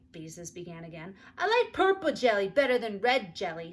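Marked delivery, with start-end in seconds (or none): 1.4-3.7 put-on 1 little girl. A narrator's reading. Little sister interrupts.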